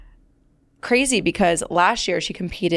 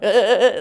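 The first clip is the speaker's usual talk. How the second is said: shaky grunts; 4 dB louder than usual. Retold or imitated. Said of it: "literally just shaking".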